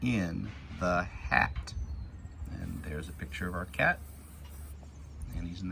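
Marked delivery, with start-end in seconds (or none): 0.0-1.7 put-on slow, clear read-aloud for kids; deliberate storybook reading; reading to children. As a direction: read each word slowly as you point. Reading picture book to kids.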